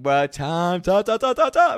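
climbing, breathless-with-news mock chant; frantic excited alert. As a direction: build it up like a hyped roommate. Roommate spamming excited group chat.

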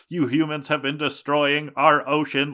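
booming alien overlord decree. Retold or imitated. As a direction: announce it like an alien ruler. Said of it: "he's got this, like, alien voice".

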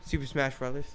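lightly imitated nerd, low and soft; awkward old-school nerd. Imitating the client's awkward son answering, subdued nerd voice. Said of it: "his voice sounded like one of those old nerds".

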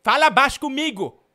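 loud, high comic rant of accusation; mock furious yelling. Host yelling at the caller he blames for stolen sausages, furious. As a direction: bellow at him like a robbed neighbour.

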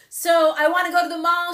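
put-on high loud teen whine; whiny teen. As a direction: whine like a teenager. Teen wanting the mall.

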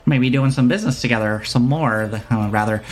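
merchant's put-on accent, hesitant pauses; lightly ingratiating shopkeeper. Shopkeeper courts a customer.

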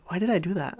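soft whisper, asking himself; whispered inner question, mild; whispered self-reproach. Retold or imitated. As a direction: hush it as if scolding yourself.

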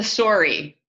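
"sorry" with a rounded SORE vowel; Canadian sorry. Shown as a demonstration. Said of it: "that's sort of Canadian sounding".

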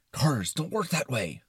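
worried objector, pitched a little up; concerned Brain. Acted. Brain objecting to the movie's cars, concerned. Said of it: "in a very concerned tone".

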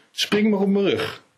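a bouncy little bunny inviting him to jump on; high rabbit girl. Acted. Rabbit girl inviting Gnodde to play, in a high playful voice.

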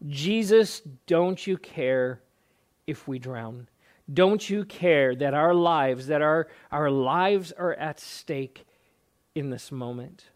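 slow desperate plea; mild slow pleading cry; pleading disciples. Retold or imitated. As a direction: beg Jesus slowly, half-voiced. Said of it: "their statement is this".

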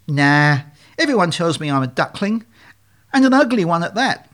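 lightly whimpering duckling, rising in pitch; a touch of whimpering self-pity; mild whimper. Acted. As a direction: whine it like a sorry little duckling. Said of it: "He started to whimper".

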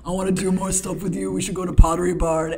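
clingy buddy begging, cracking up; needy friend. Retold or imitated. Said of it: "I just acted like a needy friend".

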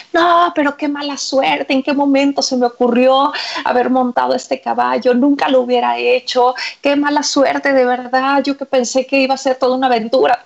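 lightly acted, regretful wail; mock lament.

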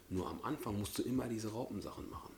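soft confiding whisper. Real, not acted. Host tells viewers about the caterpillar stage, whispering. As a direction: let them in on a secret, whispered.

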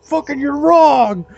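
mock rant. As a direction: tear into them, mock outrage.

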